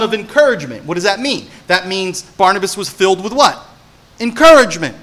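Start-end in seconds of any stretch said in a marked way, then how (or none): 4.2-4.9 punched answer. Acted. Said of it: "answering his own question".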